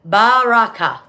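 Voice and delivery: Baraka loud and slow, each syllable spelled out; clear demo. Shown as a demonstration. Mom shows viewers the phonetic way to say the word, clearly. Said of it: "Phonetic spelling is how you say it".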